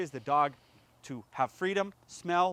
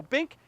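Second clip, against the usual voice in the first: mild bink sound; 11 semitones higher, 6 dB louder than usual. Shown as a demonstration. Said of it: "No, it's not bink".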